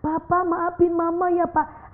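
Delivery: wife hugging husband, gently tearful apology; mild crying wife. Acted. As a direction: beg forgiveness with a hint of tears. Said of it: "Nangis istri nyamber".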